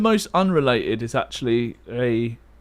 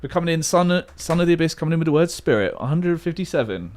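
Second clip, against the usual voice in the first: fast commentator; 3 semitones higher, faster than usual. Pretend. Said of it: "You're like an auctioneer".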